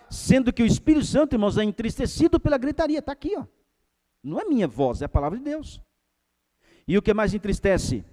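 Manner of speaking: high, loud pulpit cry; full-force preaching. Acted. Preacher rebuking a shouting church, loud and high. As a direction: preach it out hard.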